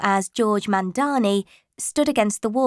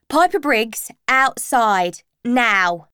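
louder, stern teacher; teacher ordering a cheeky pupil out of the hall; 2 semitones higher, 4 dB louder, slower than usual. Acted. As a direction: send her out firmly.

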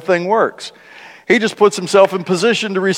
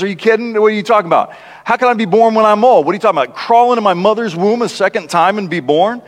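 a mild, lightly raised note of disbelief; incredulous Nicodemus; 3 semitones higher, faster than usual. Retold or imitated. Preacher voicing Nicodemus's scoff at Jesus, mildly incredulous. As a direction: scoff as if the idea insults you. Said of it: "this is the way he says it".

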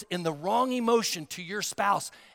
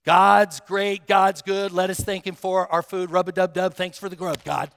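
cut and dry prayer; 5 dB louder than usual. Retold or imitated. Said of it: "it was just a cut and dry prayer".

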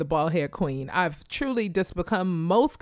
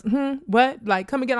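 barber's disbelief; 6 semitones higher than usual. Retold or imitated. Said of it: "the question was".

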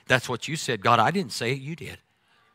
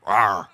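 playful lion roar; 6 semitones lower, 3 dB louder than usual. Retold or imitated. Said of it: "like the Wizard of Oz lion".

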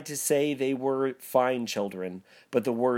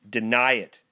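spirit crying out; 6 dB louder than usual. Acted. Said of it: "cried the spirit".

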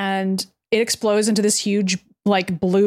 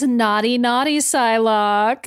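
teasing Pietro; slower than usual. Acted. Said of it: "He says".

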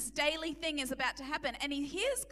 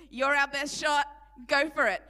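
rousing urge; 6 dB louder than usual. Retold or imitated. Saul urging David.

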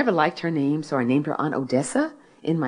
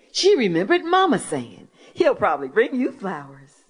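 lively storyteller reading aloud, pitched up; story reading; 7 semitones higher than usual. Acted. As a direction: read the story to a hall full of listeners. Author reads her story aloud.

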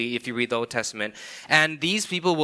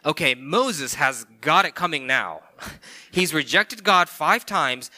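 louder, rising mock glee at the coming punishment; mock eager readers; 3 semitones higher, 4 dB louder than usual. Preacher voicing eager readers sure God will strike, hammed-up excitement. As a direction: play the readers itching to see Moses punished. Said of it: "the readers are going".

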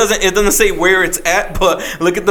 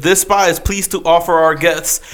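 slow, deliberate ad read; flyer read-out; slower than usual. Acted. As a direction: read the spa ad out slowly, item by item. Reads a spa flyer aloud.

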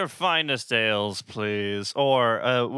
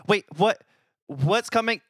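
surprised; 7 semitones higher than usual. Acted. Player voices own character.

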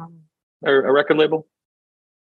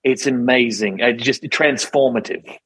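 mock pretentious DJ; slower than usual. Mocking Zane Lowe's pretentious radio voice.

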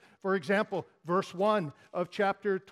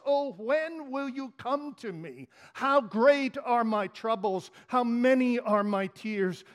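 psalm lament reading. Acted. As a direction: cry out each question like a grieving psalmist.

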